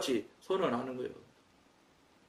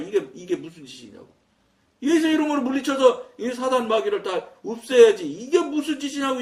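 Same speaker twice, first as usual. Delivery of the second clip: retold rebuke; 3 semitones higher than usual. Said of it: "장로가 돼가지고 말해".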